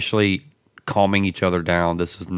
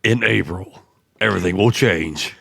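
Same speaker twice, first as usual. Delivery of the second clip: movie trailer voice. Acted. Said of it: "You sound like the damn movie trailer guy".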